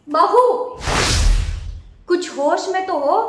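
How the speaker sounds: loud sharp call of the name; mother-in-law loudly stopping her daughter-in-law's rant; sharp rebuke. Acted. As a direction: stop her cold with one loud word.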